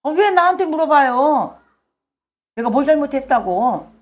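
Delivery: resentful protest. Acted. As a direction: act out talking back as if wrongly blamed. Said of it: "하나님에 대한 원망이 있으면은". (억울하다는 듯 따지는 말투)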